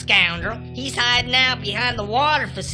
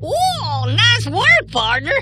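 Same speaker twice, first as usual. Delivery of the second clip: high, whooping admiration; high-pitched excited congratulations; impressed praise; 7 semitones higher, slower than usual. Acted. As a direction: cheer on your partner. Praises partner for beating the outlaws.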